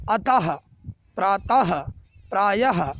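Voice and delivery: अतः, प्रातः, प्रायः each ending in an audible "ha"; visarga as h. Shown as a demonstration. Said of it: "ह के समान, जैसे". (अतः, प्रातः, प्रायः के अंत में विसर्ग का उच्चारण ह जैसा)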